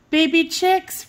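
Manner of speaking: thrilled at the little chicks; delighted cry. A narrator's reading. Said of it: "Raggedy cried".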